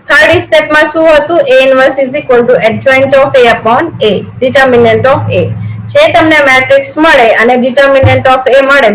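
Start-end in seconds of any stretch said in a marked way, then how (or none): 1.5-5.5 very slow, word-by-word dictation. Shown as a demonstration. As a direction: spell the formula out slowly so students can write. Teacher dictating a formula. (વિદ્યાર્થીઓ લખી શકે તે રીતે ધીમે ધીમે લખાવવું)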